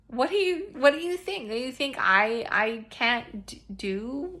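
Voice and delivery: high, loud playful challenge; God's teasing challenge. Retold or imitated. God playfully challenging her, mock high and loud. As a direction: tease her like an amused parent. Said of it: "And he's like".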